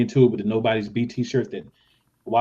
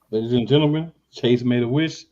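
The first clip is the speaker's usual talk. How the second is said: raised, slightly louder announcer voice; announcer introduction; 3 semitones higher, 3 dB louder, slower than usual. Acted. Host introduces a guest whose wish came true, announcer style. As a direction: announce it like a big entrance.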